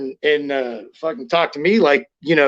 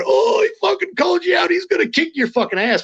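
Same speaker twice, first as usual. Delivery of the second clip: high, jeering voice of the guys egging him on; mocking taunt; 12 semitones higher than usual. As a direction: needle him like a gym bully, pitched way up. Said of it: "all these guys ragged me on".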